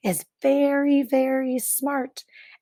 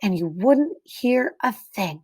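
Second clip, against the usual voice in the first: put-on clear, expressive read-aloud to children; story narration. A narrator's reading. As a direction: read it like a picture book for kids. Reads picture book to class.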